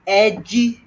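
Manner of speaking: high, loud announcer-style shout of the name; Paul Heyman impression. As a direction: bellow the name like a hype man introducing him. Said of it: "according to Paul Heyman".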